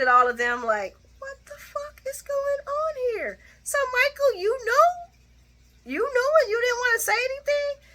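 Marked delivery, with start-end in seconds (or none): 1.2-7.8 much higher, hammed-up outraged yell; outraged Sonny. Sonny confronting Michael about the secret, high hammed-up outrage. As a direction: play a betrayed father losing it.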